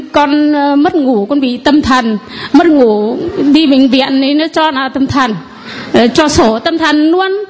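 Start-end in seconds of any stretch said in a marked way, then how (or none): 2.5-7.4 low voice with laughter running through; laughing while telling. Real, not acted. Woman telling the priest her diagnosis, laughing. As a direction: chuckle at your own misfortune.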